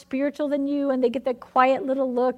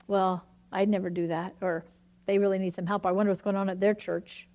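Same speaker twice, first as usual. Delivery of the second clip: lower, lightly smug self-righteous tone; a touch of holier-than-thou, said lower; 5 semitones lower than usual. Retold or imitated. Preacher mocking a judging churchgoer, lower and mildly smug. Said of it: "self-righteousness would say".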